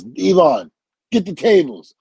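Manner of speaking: high, loud catchphrase call; Hogan. Retold or imitated. Wrestling idol greeting a nervous newcomer, loud mock holler. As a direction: belt it out like a wrestling star.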